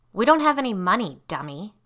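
quick, high, mildly snippy retort; half-joking. A narrator's reading. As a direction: tease with a real edge. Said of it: "said, only half jokingly".

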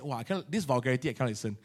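soft, low, disgusted murmur; quiet recoil from vulgar music; retold disgusted murmur. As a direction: mutter it with distaste, dropping away. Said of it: "grabbed this CD and said".

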